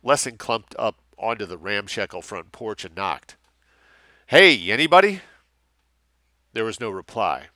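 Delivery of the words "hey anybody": loud, high hail at the door; calling out. Acted. Lessing at the front porch, calling out loud and high. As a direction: shout into the empty house.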